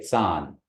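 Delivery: san begun with TS as in cats; TS sound in san. Shown as a demonstration. Teacher models the word after correction, san with TS. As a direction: start san with T and S together. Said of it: "You just feel that T S".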